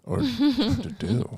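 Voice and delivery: slow, high comic take on "Doodoo"; joking pronunciation. Acted. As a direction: stretch "Doodoo" high and silly. Joins joke on the name's pronunciation.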